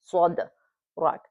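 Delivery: صدرك slowly with a small bounce on the د; slow light qalqala. Shown as a demonstration. Teacher slowing down to show the bounce. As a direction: bounce the dal in صدرك gently, unhurried. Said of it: "He was very light".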